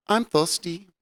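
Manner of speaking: mimicking Rosie Perez asking her man for water, lightly Rosie Perez accent. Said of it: "I like your Rosie Perez accent".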